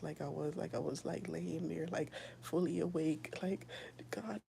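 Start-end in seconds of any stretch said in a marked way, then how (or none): 4.1-4.4 half-whispered pleading to God, hushed and urgent; a retold, breathy cry for help to Jesus; desperate prayer. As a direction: beg for help in a frightened hush. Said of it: "in distress".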